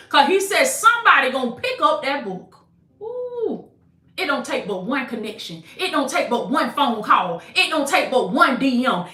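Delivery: fired-up, emphatic prophetic preaching. Real, not acted. Preacher declaring a word over struggling believers, fired-up preaching. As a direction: preach it with punch, lifting the key phrases.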